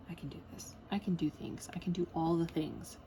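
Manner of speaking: understated pep talk to herself; self-encouragement. Retold or imitated. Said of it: "And then I'm like".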